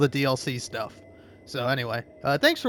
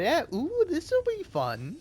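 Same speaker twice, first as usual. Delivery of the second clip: excited; 13 semitones higher, slower than usual. Real, not acted. Anticipating effect of gummy.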